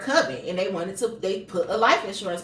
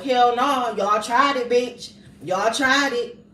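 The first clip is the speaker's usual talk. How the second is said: defiant sass; slower than usual. Retold or imitated. Ancestors defying the doctors.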